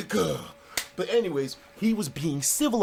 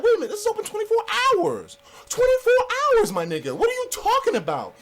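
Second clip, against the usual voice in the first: much higher, louder, outraged; indignant high yell; 5 dB louder than usual. Retold or imitated. To the closing shop owner, an outraged high yell. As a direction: yell it like you've been wronged. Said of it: "and then I said, I'm like".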